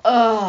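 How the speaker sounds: mock groan. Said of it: "The boys all go".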